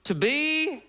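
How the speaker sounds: hammed-up Shakespearean delivery; Shakespeare doing yeah nah. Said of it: "He was more like".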